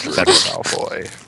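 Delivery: high, slow echo in a put-on voice; drawn-out silly name-saying; mock Draco voice. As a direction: echo the name, stretched and piping.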